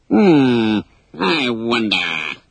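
slow, plotting order; muse, then give the order; scheming captain. Acted. Hook ordering Smee, slow and scheming. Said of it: "he ordered Smee".

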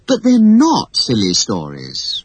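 slow, leaning hard on not; defiant. Acted. Wendy defiantly answers her scolding father. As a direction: stand your ground against father. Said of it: "Wendy said defiantly".

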